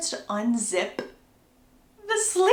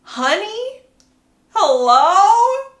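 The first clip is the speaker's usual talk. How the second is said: high, rising incredulous questions, getting louder; 9 semitones higher, 8 dB louder, much slower than usual. Real, not acted. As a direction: call out the pet name in disbelief. Teller reacts incredulously to the word.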